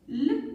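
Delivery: "L" as a held "le" sound; letter sound. Shown as a demonstration. Teacher showing a letter's sound, "L" as phoneme. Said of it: "La lettre L".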